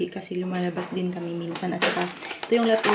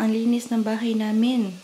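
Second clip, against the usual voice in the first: sarcastic boast; 7 dB louder than usual. Acted. Sarcastic praise of messy house.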